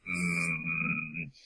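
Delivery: low, quiet held "mm"; soft, drawn-out noncommittal hum; restrained hum. Acted. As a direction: hum tightly, holding it all in. Chrome outwardly holding it in.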